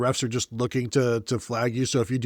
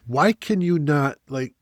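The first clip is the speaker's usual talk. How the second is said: exasperated plea; 4 semitones higher, 4 dB louder, slower than usual. Retold or imitated. Exasperated plea at own team.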